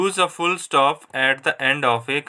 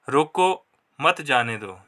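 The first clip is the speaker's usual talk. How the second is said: रोको set apart by a pause, then मत जाने दो; pause after रोको; slower than usual. Shown as a demonstration. Teacher showing students a comma that means stop, pausing after रोको. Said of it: "यहाँ पर comma की वजह से ... रोकने की बात हो रही है".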